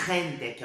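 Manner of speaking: "gente" with a throaty Brazilian g; Portuguese throaty r. Shown as a demonstration. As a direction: say "gente" and feel it scrape in the throat. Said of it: "quando eu falo".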